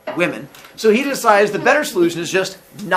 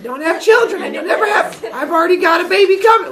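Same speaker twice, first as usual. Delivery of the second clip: laughing quote; 12 semitones higher, 3 dB louder than usual. Acted. Voicing Cronus's foolish foes.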